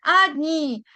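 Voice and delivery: "Adni" with a long, falling last i; stress on last syllable. Shown as a demonstration. Teacher showing learners where the accent falls, "Adni" stressed on the final i. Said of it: "en la última i".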